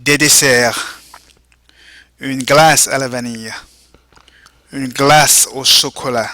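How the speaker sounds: model vocabulary reading. Shown as a demonstration. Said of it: "go ahead and repeat".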